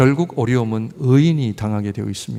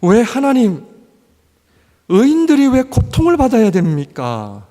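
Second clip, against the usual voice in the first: loud, pleading lament; anguished protest to God; 8 semitones higher, 5 dB louder than usual. Acted. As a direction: cry out why God allows suffering. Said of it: "어떻게 이럴 수 있습니까?". (하나님께 울부짖는 큰 소리의 탄식)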